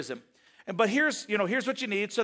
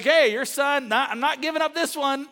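Jacob refusing; 6 semitones higher, 4 dB louder than usual. Retold or imitated.

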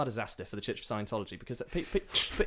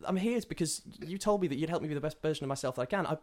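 indignant pleading; 5 semitones higher than usual. Acted. Toby protests being cast out.

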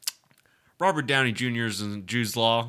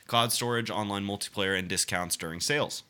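reading the article aloud in a steady report voice; news article reading; 2 semitones lower than usual. Acted. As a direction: read it like a news piece.

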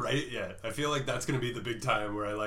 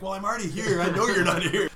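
higher, mildly exasperated comeback; retold exasperation; 6 semitones higher, 6 dB louder than usual. Telling off the absent coworker by text, mock exasperated. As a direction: act out a put-out reply, pitched up.

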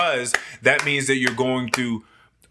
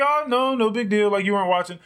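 high, breezy reassurance; imitated polite stranger; 10 semitones higher, faster than usual. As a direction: brush it off lightly as a stranger. Voicing stranger's reply.

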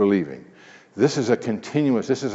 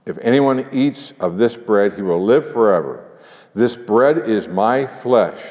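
preaching scripture; 4 dB louder than usual. Acted. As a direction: proclaim it with full force. Preaching Jesus' words.

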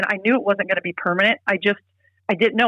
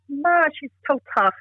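laughing it off; 3 semitones higher than usual. Retold or imitated. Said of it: "he laughed it off".

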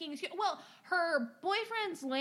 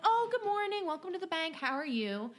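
overly cheerful greeting; 8 semitones higher than usual. Retold or imitated. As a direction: sing out the welcome like a chirpy teller. Teller greeting customer at drive-thru.

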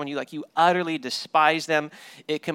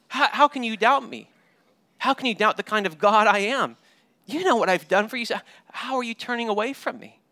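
pleading reproach from a grieved God, pushing higher; upset God; 4 semitones higher than usual. Retold or imitated. Scene: God rebukes his doubting people, hurt and exasperated. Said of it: "God, he gets really upset, and he's like".

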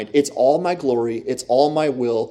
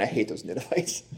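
pouting; 3 semitones lower, 11 dB quieter than usual. Retold or imitated. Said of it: "pouting, all mad and angry".

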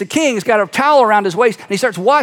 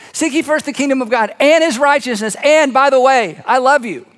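raised, insistent declamation, building by repetition; emphatic scripture preaching; 2 semitones higher than usual. Acted. Preacher quoting Jesus on the things you worry about, emphatic. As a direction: pile up each phrase with conviction.

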